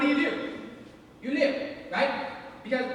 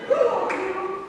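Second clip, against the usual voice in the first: pitched up in disbelief; higher, more baffled; 9 semitones higher, 4 dB louder, much slower than usual. Retold or imitated. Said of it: "you think to yourself".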